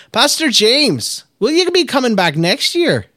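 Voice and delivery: put-on a kid asking in a high, slow Irish lilt; Irish accent. Shown as a demonstration. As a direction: try the Irish accent properly, lilting up high. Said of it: "Okay, let me try that again".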